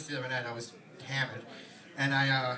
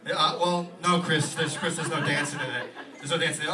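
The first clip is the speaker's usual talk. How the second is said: loud patient agent letting him down; 5 dB louder than usual. Retold or imitated. Agent telling Chris there is no dancing, loud and patient. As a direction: break the news gently but loudly. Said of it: "his agent".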